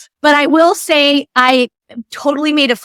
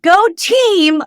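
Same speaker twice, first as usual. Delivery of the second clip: higher, awkward fan cheer, retold; starstruck cheer; 6 semitones higher than usual. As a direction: imitate your own starstruck little cheer. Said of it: "I never get starstruck".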